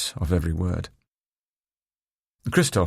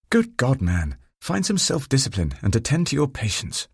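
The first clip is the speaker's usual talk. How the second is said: stern doctor voice; 6 semitones higher than usual. A narrator's reading. Narrator voices stern colleague.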